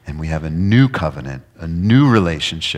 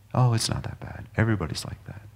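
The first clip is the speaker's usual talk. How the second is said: breathy, much softer brush-off; dismissive whisper; 3 semitones higher, 8 dB quieter, faster than usual. Acted. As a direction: whisper it like it's no big deal. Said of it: "our society saying".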